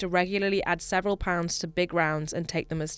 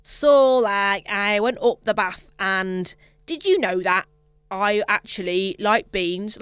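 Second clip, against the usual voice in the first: louder mock blend of English accents; mixed English accents; 5 dB louder, slower than usual. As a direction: jump between English regional accents. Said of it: "eight different English accents".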